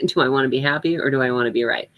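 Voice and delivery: fast repeat with a laugh at the start; chuckle, then rattle the mantra off quickly. Shown as a demonstration. Woman repeating her old mantra to herself, laughing. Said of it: "my mantra was always".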